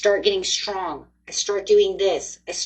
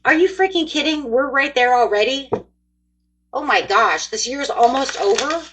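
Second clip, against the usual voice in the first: higher and louder, mock outraged disbelief; hammed-up astonishment at time flying; disbelieving shock; 5 semitones higher, 6 dB louder than usual. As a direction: act out the shock of seeing the calendar. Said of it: "I'm like".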